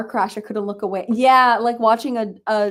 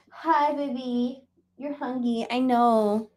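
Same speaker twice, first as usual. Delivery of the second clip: cooing to cat; 3 semitones higher, 3 dB quieter, slower than usual. Real, not acted. Talking to her cat.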